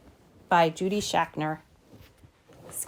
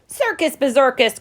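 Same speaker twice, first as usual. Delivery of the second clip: higher exasperated mock groan; mildly exasperated; 5 semitones higher than usual. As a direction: grumble it as a fed-up mama. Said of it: "groaned Mama".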